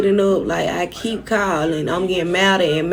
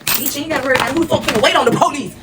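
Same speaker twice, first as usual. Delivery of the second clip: shouting; 6 semitones higher than usual. Retold or imitated. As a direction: yell back in defiance. Retold shouting back at Larry.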